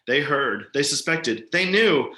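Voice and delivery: rising horror. Acted. Horrified realization building up.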